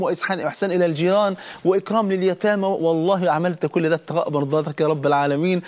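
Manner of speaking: rising fervent supplication; pleading to God. Pretend. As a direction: pour it out like a grateful prayer. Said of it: "أقف بين إيديه عشان أقول له".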